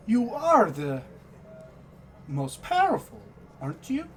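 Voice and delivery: birdlike squawk; squawking bird creature. Acted. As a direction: squawk it like a raven-man. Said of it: "You hear the Kenku squawk".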